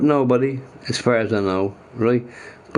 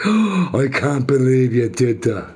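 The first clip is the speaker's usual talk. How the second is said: shocked judge. Retold or imitated. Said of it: "the judge is, like, shocked".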